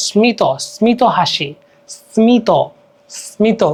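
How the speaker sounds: স্মিত said "smi-to", s then m; audible m. Shown as a demonstration. Teacher illustrating Sanskrit m, careful স্মিত. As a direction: sound the m clearly after a held s in স্মিত. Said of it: "ময়ের উচ্চারণ হয়".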